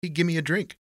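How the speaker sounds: high-pitched voice for the porter; loose porter. A narrator's reading. Porter explains his drink to Tony, loosely.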